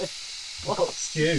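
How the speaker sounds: slow breathy whisper, drawn out. Acted. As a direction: savour the word like a secret. Teasing reveal of dinner.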